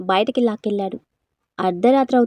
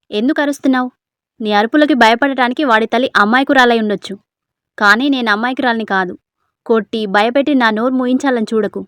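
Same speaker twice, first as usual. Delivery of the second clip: defiant anger; 4 dB louder than usual. Acted. Wife stands up to husband.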